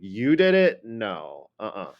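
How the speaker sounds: skeptical demo of disbelief; doubting. Shown as a demonstration. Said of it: "I don't think you did".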